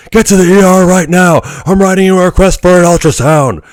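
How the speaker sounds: alarmed inventor ordering him out; Doc Brown. Retold or imitated. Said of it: "my best Doc Brown impression".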